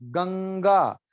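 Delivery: गंगा with a clear g, ganga; गंगा as read. Shown as a demonstration. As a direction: say गंगा as the river name. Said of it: "क्या लिखा है". (गंगा साधारण उच्चारण)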